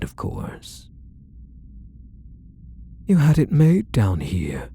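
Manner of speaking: hushed, breathy gloating whisper. Acted. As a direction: lean in and whisper it to the captive. Creepy captor gloating softly.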